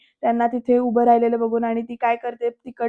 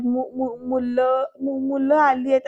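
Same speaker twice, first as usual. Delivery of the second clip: acted halting stutter; mildly flustered, broken start; nervous stammer; slower than usual. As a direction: stumble over the first syllable, then get it out. Wife nervously interrupts angry husband.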